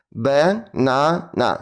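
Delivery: banana very slow, chopped robot syllables. Shown as a demonstration. Teacher drilling banana like a robot. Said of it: "Тренуємо це слово".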